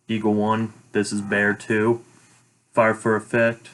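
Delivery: steady radio call-for-fire voice; calm radio fire call. Shown as a demonstration. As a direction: read it like a radio transmission. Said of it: "I have a sample of a call for fire".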